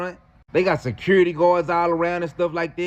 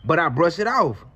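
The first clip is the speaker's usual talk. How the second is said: ordinary talk, nothing marked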